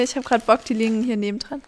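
talking with a chip in the mouth; chewing while talking. Real, not acted. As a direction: speak through a mouthful of crisps. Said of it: "Ich esse grad ganz kurz einen Chip".

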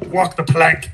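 pirate captain's order; lightly voiced pirate. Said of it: "in me pirate voice".

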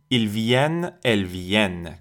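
"viennent" as vyen, with a sounded n; "viennent" with no nasal vowel, n held; denasalised ending. Shown as a demonstration. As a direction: open e and clear final n in "viennent".

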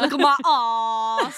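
ASS held very long as "ahss", loud; drawn-out long A. Shown as a demonstration. Playing up the long vowel for laughs, drawn-out long A. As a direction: stretch "ass" into a slow "ahss". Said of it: "I have to say ass".

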